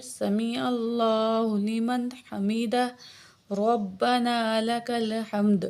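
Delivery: slow, measured tasbih; prayer recitation. Shown as a demonstration. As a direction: recite it three times calmly. Recites rising phrases.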